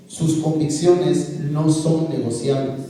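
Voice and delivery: slow, spaced-out "no son negociables"; slow emphasis. Real, not acted. Speaker advising young people, slow emphasis. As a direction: weigh each word of "no son negociables". Firm emphatic advice to youth.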